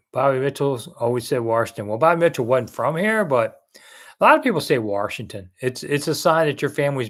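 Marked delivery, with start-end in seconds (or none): 1.4-1.9 "Washington" said "Warshington". Retold or imitated. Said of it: "Washington too with an R". 4.8-5.5 "Washington" said "Warshington". Shown as a demonstration. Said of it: "Washington too with an R".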